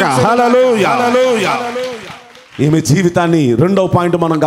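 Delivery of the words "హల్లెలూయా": a slow, sung-out praise cry to the congregation; long, ringing hallelujah, held out slowly; drawn-out hallelujah. Acted.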